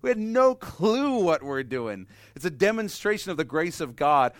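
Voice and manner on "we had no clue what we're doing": laughing at our younger selves. Retold or imitated. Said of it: "we're like".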